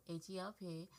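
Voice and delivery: each letter of "H E L P" said separately, one by one; spelling it out. Shown as a demonstration. Thanking the podcast sponsor, spells out H E L P letter by letter. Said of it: "our sponsors over there at BetterHelp".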